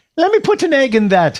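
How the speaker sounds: very high-pitched Irish grandmother voice. Retelling a grandmother adding an egg to a milkshake: imitating grandmother's Irish accent. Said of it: "Irish woman with the accent".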